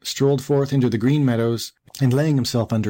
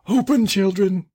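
high, slow, put-on mother call; wolf posing as mother; 9 semitones higher than usual. A narrator's reading. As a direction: call the children as the disguised wolf. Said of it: "cried he".

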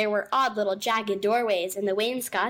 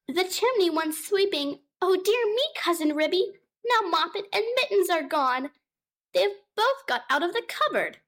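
high, fussing cat voice; a worried cat housewife, pitched up; fretful mother cat; 8 semitones higher than usual. Acted. Mother cat Tabitha greeting her cousin, high and fretful. Tabitha frets about kittens.

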